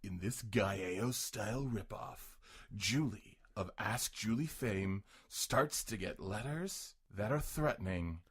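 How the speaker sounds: slow, dramatic movie trailer narration; lightly voiced trailer announcer. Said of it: "trailer announcer voice".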